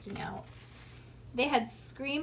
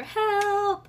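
long, high holler for help; loud drawn-out cry; 11 semitones higher, 8 dB louder than usual. A narrator's reading. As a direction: holler it at full voice. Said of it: "they hollered".

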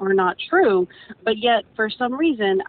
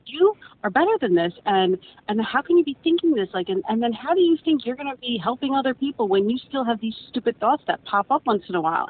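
higher, scolding inner critic, lightly voiced; 5 semitones higher than usual. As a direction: berate yourself like a harsh inner voice. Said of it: "my self-criticism will come in and be like".

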